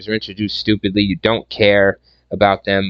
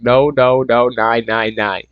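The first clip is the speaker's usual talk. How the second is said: mock German protest; 2 semitones higher than usual. Reviewer replays his reaction to the movie, mock German dismay. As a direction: protest like a flustered German soldier. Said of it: "I was like".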